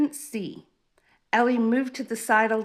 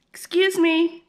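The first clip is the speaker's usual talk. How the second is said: a high, louder call from a lightly voiced giraffe; a prim giraffe interrupting; haughty giraffe; 9 semitones higher, 7 dB louder than usual. A narrator's reading. Giraffe voiced, calling behind Ellie.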